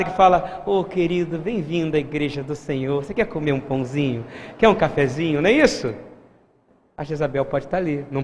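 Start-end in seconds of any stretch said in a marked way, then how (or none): 0.7-5.4 soft, lower, gushingly kind church greeter; mock-tender hospitality, spoken gently; sweet fake welcome. Preacher playing Jezabel greeting a visitor at church, sweetly welcoming. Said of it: "aquela pessoa maravilhosa, que sorri, que te abraça".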